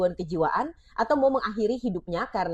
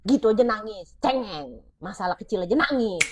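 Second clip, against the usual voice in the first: dismissive parent. Shown as a demonstration.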